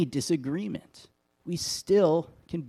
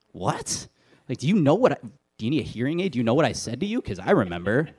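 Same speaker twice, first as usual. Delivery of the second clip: amazed disbelief; 3 dB louder than usual. Retold or imitated. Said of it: "And I was like".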